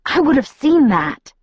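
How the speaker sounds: high, insistent rebuttal; defensive retort. A narrator's reading. Alice rebuts Edward's accusation, defensive. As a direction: snap back in self-defence.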